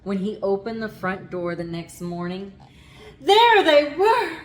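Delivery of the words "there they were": high, loud, slow exclamation; surprised reveal. A narrator's reading. Narrator finding the underwear at the door, astonished. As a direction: gasp it out in disbelief.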